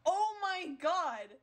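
loud, high, slow oh my God; drawn-out shocked gasp. Real, not acted. Shocked at the game.

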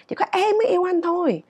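"em mới" pitched high, falling after; stress on the subject. Shown as a demonstration. Teacher saying only I love you, stress on the subject. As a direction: lift "em mới" well up to claim it. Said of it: "mình muốn nhấn mạnh cái chủ thể là mình".

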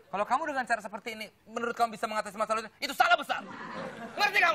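fast, rising telling-off that peaks at the end; boss telling off. Acted. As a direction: dress down the worker, building to a sharp question. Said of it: "jangan marah-marah mulu".

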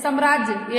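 "साम्राज्य" with short first vowel, "sam-raajya"; common mispronunciation. Retold or imitated. Teacher quoting what many people say, mispronounced. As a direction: clip the opening a of "साम्राज्य". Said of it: "बहुत सारे लोग होते हैं बोलते हैं".

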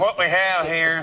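Strother Martin impression. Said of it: "reminded me of Strother Martin".

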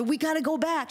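high, urgent mock scream; retold screaming. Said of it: "I'm screaming at my mother".

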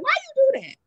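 high, loud exasperated demand; frustrated outrage. Retold or imitated. Voice note to the man who sent it, high frustrated outrage. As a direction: throw the question back at him, fed up. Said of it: "I want them to hear the frustration".

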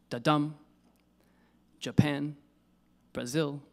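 DUM of da-dum, PAN of Japan, ZIL of Brazil stressed; light first syllable, weight on the second: da-DUM, ja-PAN, bra-ZIL; iambic stress. Shown as a demonstration. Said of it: "unstressed syllable followed by a stressed syllable".

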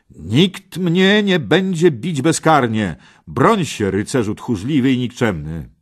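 loud, high challenge; defiant shout. A narrator's reading. Parsival challenges the knight who struck him, defiant shout. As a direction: call out your opponent indignantly. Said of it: "i zawołał".

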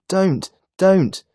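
high, loud, desperate plea; two high, falling wails of protest; pleading cry. A narrator's reading. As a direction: cry out in distress like a little boy. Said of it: "Jimmy cries".

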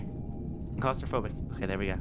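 breathless from laughing; winded, words squeezed out after laughing; after laughing hard. Real, not acted. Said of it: "Oh man, I'm crying".

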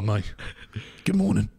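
greeting well below the falsetto take. Shown as a demonstration. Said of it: "Or a, or a".

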